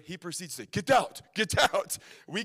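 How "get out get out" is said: put-on loud German-accented command; mock German trucker barking an order; imitated German accent. German driver ordering riders out at gas station, imitated German accent. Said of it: "Thick German accent".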